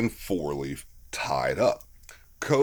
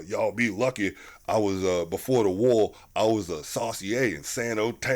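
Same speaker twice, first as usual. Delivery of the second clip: lower, lightly voiced folksy war veteran; Lazarus in character; 4 semitones lower than usual. Actor in character telling of life before the war, lightly imitated veteran. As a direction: lightly put on a drawn-from-film soldier's talk. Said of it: "Lazarus gets into character again".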